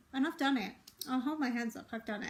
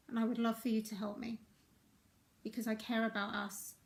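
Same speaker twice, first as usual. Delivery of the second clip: soft vulnerable plea. Shown as a demonstration. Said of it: "we could say".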